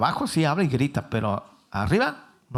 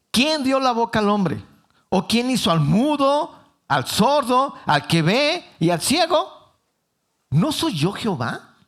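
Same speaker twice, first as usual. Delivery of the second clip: a hint of a scolding God; annoyed God; 5 semitones higher, slower than usual. God rebuking Moses for excuses, mildly annoyed. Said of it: "Ya Dios empezó a molestar".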